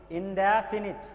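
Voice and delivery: "ইনডেফিনিট" slowly, with open "dae" in the middle; model pronunciation. Shown as a demonstration. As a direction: teach "ইনডেফিনিট" as "in-DAE-finit", drawn out. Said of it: "ইনডেফিনিট নয় উচ্চারণটা". ("ইনডেফিনিট" ধীরে, ড্যা ধ্বনি দিয়ে)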